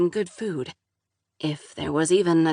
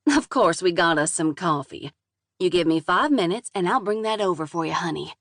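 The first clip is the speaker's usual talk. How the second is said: southern drawl. Acted. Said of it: "thick southern drawl".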